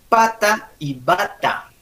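slow "pata y bata", P against B; careful pronunciation. Shown as a demonstration. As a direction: set "pata" clearly apart from "bata". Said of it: "Ah, vos dices".

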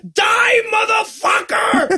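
furious shout. Retold or imitated. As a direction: yell it like a movie villain. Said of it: "Superman gets the doll and he's like".

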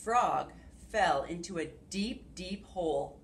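put-on expressive read-aloud to kids; storytelling. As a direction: read it like a picture book. Reading picture book aloud.

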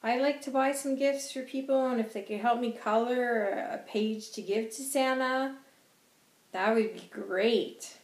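put-on high, bright-eyed child asking sweetly; a small girl asking for a gift for Santa; little girl voice. Little girl's eager request to Santa.

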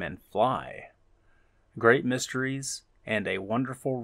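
measured read with deliberate phrasing; reading aloud. Acted. Streamer reading developer's words to viewers, measured read-aloud. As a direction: present it like a game blurb, pausing between phrases.

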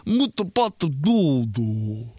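mock dad's Italian, drawn out; dad speaking Italian. Dad showing off his Italian to his son, drawn-out mock Italian. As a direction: drag out the syllables, imitating dad. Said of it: "He'd be like".

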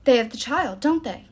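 loud, rising anger; angry, forceful questioning; fury. A narrator's reading. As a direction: demand it in mounting fury. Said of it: "transformed into a portrait of fury".

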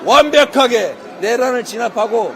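rally shout. Real, not acted. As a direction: shout it to the crowd. Campaign rally speech shouting.

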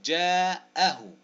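very slow "جاءه"; syllable-by-syllable. Shown as a demonstration. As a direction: stretch "جا", then strike the hamza. Sounding out word for spelling.

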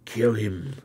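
rising to a cry on in his bed; the carrier crying out in murderous rage; cried out. A narrator's reading. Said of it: "and cried".

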